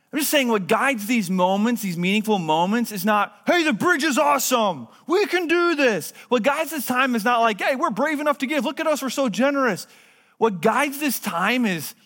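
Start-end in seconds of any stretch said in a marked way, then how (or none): 3.5-6.1 pitched much higher, hammed-up bragging; mock boast. Preacher mocking a church that brags about itself, higher mock boast. 7.6-9.9 pitched much higher, hammed-up bragging; mock boast. Preacher mocking a church that brags about itself, higher mock boast. Mocking self-congratulating givers.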